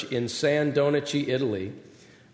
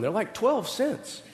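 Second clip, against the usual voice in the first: laughing; 9 semitones higher, 5 dB quieter than usual. Acted. Consoling son, laughing.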